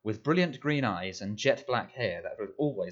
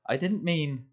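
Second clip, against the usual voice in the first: higher, cut off; 7 semitones higher than usual. A narrator's reading. Boy cut off mid-excuse.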